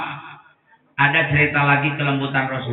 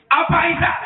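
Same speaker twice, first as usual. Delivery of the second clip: high surprised question; 14 semitones higher, faster than usual. Acted. Abu Bakar asks Aisyah.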